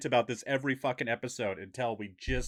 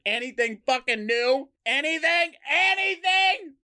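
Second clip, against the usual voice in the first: rising higher and louder, then yelling; building to a shout; 10 semitones higher, 3 dB louder than usual. Real, not acted. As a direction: push it up into a yell. Host begging for news.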